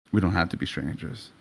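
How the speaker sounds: low, soft come-on; soft seductive voice. Acted. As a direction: lure him in quietly. Auburn hair seduces softly.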